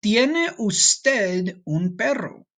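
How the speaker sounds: stretched out, very slow and careful; very slow girl's line. Shown as a demonstration. Teacher reading the girl's polite question to the class, very slow. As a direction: read the girl's question word by word. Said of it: "This girl says".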